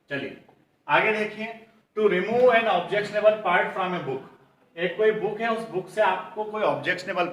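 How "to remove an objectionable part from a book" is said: very slow, each word spaced out for students to copy; slow dictation. Shown as a demonstration. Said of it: "dictates the question slowly". (बहुत धीमे, शब्द-शब्द अलग करके dictation)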